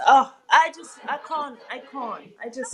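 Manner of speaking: words catching in the throat as emotion takes over; choking up. Real, not acted. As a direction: voice breaking off into silence, real. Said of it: "I'm choking up words".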